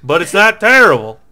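a hint of cowboy twang, playing along; Western voice. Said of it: "just do all Western voices".

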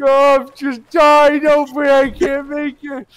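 hammed-up dying groans; mock dying. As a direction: overact a dramatic death.

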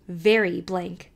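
slow dry sarcastic aunt. Acted. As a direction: drawl it with cool disdain. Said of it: "said Aunt Elizabeth sarcastically".

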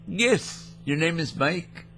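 a lightly put-on goofy caller; mildly goofy prank-caller voice; odd put-on voice. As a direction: toy with the agent in a silly voice. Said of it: "No, my name is Sherman".

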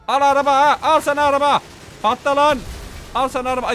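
high, loud raging shout; furious take-that; angry yell. Acted. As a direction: yell while blowing up the car. Raging while blasting the car.

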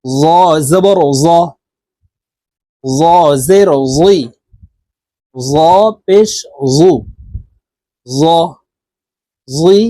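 জ said thick and heavy in জবর জ, জুই, জু; thick jha. Shown as a demonstration. Teacher showing students the thick জ letter, heavy. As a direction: make the জ full and heavy in the mouth. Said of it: "মোটা করে জ হরফের উচ্চারণ করব".

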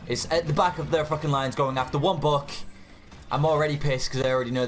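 angry rant. Real, not acted. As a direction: vent at the useless team. Raging at teammates while gaming.

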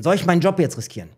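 hurried second asking of the same question. Retold or imitated. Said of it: "Ich so".

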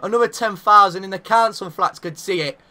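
heated scolding of his own team; angry rant. Real, not acted. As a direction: vent fury at the defending. Ranting about the defending.

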